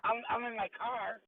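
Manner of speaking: muffled like in a cave; boxy muffled mic in a car; muffled phone mic. Real, not acted. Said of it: "it sounds like you're in a cave".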